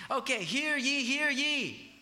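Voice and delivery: high, loud herald's call; town crier. Retold or imitated. Herald announcing to the town in a high loud call. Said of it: "someone who would come into the town and say".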